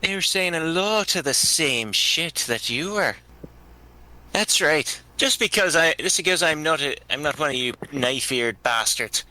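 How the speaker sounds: put-on accented character voice, indignant and threatening; indignant, cocky warning in character; feisty human fighter. Insulted human squaring up to the elf, defiant.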